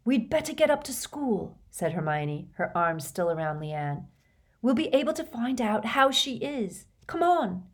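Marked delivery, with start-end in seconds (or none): 0.1-1.6 put-on high, kindly girl's voice; concerned girl. A narrator's reading. Hermione with arms around Leanne, concerned. 4.6-7.7 put-on high, kindly girl's voice; concerned girl. A narrator's reading. Hermione with arms around Leanne, concerned.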